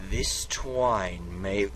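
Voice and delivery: drawn-out, portentous storyteller voice; slow dramatic reading. Acted. Narrator restarts the spooky intro, slow and grand. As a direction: stretch each word like a horror trailer.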